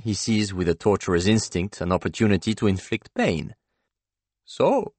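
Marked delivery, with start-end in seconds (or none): 4.4-4.9 much higher, relishing gloat; gloating torturer savouring the moment; relishing villain. A narrator's reading. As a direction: drag it out with cruel relish. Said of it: "he declares again with relish".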